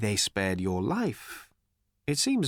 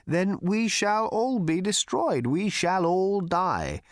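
querulous; 2 semitones higher than usual. Acted. Slartibartfast urging action against Ford's indifference, querulous. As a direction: fret and whine against doom. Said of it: "said the old man querulously".

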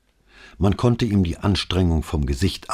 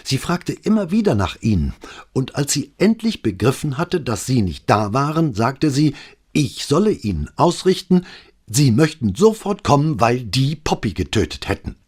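higher, louder, breathless policeman report; rattled young officer reporting to his boss; agitated sergeant; 8 semitones higher, 5 dB louder than usual. A narrator's reading. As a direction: blurt it all out in a rush of alarm. Agitated Alvise reporting call.

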